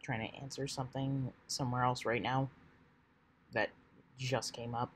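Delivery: quiet, distracted murmur; soft voice. Real, not acted. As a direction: speak low and soft while busy. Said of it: "sorry if I'm a little quiet right now".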